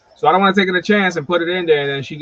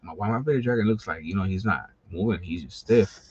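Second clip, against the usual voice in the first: stunned grief; 5 semitones lower, 5 dB quieter than usual. Retold or imitated. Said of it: "one day I'm like".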